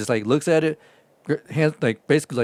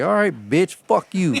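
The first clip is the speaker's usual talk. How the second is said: higher, sarcastic send-off; dismissive; 6 semitones higher, slower than usual. Retold or imitated. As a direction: tell him off as you leave. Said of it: "And I'm like".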